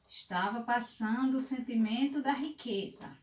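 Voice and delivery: put-on storytelling to children. A narrator's reading. Teacher reads a fable aloud.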